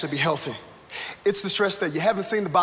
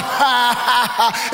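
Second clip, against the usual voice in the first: hammed-up ha-ha of mocking friends; mock laughter; 2 semitones higher, much slower than usual. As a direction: imitate people laughing at you. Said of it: "they're laughing at me".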